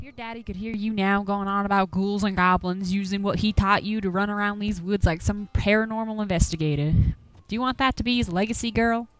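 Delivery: lightly voiced old country hunter, grumbling; a hint of a gruff Appalachian old-timer warning folks off. Game master voicing Duke, shooing the players from his woods, gruffly.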